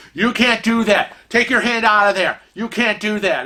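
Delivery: scolding like a ship security guard; retold yelling guard. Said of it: "starts yelling at him".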